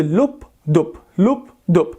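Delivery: lub dub said in a heartbeat rhythm; spoken heartbeat demo; imitated heartbeat. Shown as a demonstration. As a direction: mimic the heart sound for students. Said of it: "خلي بس أمثلكم إياها".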